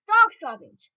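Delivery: high, very loud outcry; crowd shout. A narrator's reading. Assembly of witches taking up the cry, shouting. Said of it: "they shouted".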